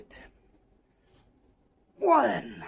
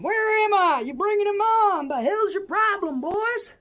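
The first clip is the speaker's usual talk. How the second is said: mock demanding; 6 semitones higher, 4 dB louder than usual. Models what fans should demand.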